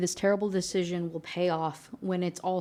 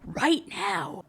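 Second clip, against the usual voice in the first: acted angry demand; 10 semitones higher, slower than usual. Girlfriend threatening him with a knife, acted angry yell.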